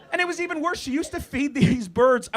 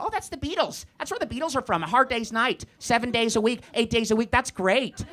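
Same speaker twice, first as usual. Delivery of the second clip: clueless Canadians; 3 semitones higher than usual. Retold or imitated. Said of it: "a lot of Canadians".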